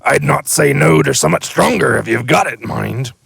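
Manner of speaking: high, loud sly hint; wry giant. Acted. Hagrid hinting he'd like a stronger drink, sly and loud. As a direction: nudge for something stronger.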